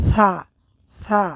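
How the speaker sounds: "সা" said light, tongue tip against the front teeth; a thin, light "সা" from the tongue tip. Shown as a demonstration. Teacher demonstrates the light "সা" to students. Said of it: "জিহ্বার আগা ... লাগিয়ে উচ্চারণ করতে হবে".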